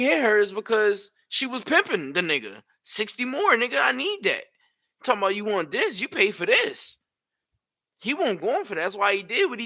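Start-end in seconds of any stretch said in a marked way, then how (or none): 2.8-7.0 mock woman's demand.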